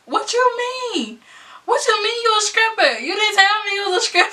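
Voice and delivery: high, frantic retold panic; freaking out. To boyfriend after learning he strips, high frantic disbelief. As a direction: rattle it off fast in disbelief. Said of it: "I was freaking out".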